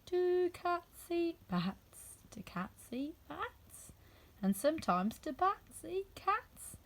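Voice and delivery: slow, drowsy murmur; dreamy. A narrator's reading. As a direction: drift off as you ask it. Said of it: "saying to herself in a dreamy sort of way".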